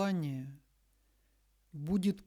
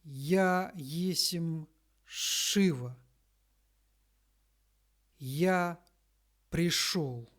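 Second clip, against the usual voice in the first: slow, louder solemn proclamation; solemn deity voice; 4 dB louder, much slower than usual. Acted. Channeler speaking as Lord Shiva to followers, slow solemn proclamation. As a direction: announce yourself as a god, unhurried and grand. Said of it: "Господь Шива".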